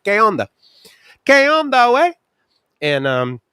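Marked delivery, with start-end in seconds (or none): 0.0-2.1 high, eager "¿Qué onda, güey?"; eager greeting. Retold or imitated. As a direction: greet him with keen Spanish. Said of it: "I'm like".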